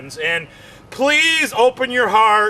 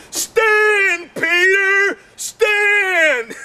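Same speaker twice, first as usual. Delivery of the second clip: mock commanding; 9 semitones higher, much slower than usual. Wife ordering her husband's body part to stand. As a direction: command it sharply, twice. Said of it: "she's like".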